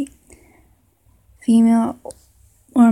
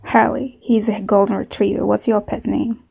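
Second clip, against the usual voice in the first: put-on southern accent. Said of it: "maybe a southern accent".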